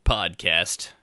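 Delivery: self-important mock voice; smug, puffed-up show-off; pompous podcaster. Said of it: "one of those people like".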